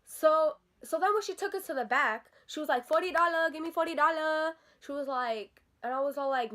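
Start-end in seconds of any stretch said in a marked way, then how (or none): 2.9-4.5 higher, lightly mocking demand; mimicked salon worker. Teller imitating salon worker wanting forty dollars, mocking mimicry.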